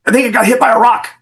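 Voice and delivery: high, bewildered report; dazed boss. Retold or imitated. Shot boss radioing in, high dazed voice. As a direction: sound stunned and unsure.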